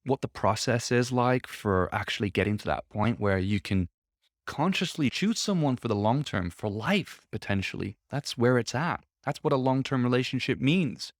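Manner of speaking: stuffy, bunged-up voice; blocked nose. Real, not acted. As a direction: speak through a blocked nose. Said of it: "I'm all bunged up".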